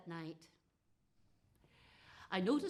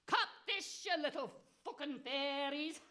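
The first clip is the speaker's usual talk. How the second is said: witch's taunt; 4 semitones higher than usual. Acted.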